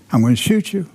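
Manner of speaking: half-shouted warning to intruders; mock shout. Homeowner threatens gang from his porch, mock shout. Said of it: "you're shouting from your porch".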